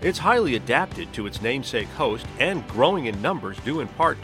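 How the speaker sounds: documentary narration; nature documentary. Acted. Scripted podcast intro over music.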